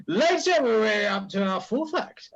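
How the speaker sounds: announcer call. Real, not acted. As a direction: belt it out like a compere opening the act. Compere calls out to audience.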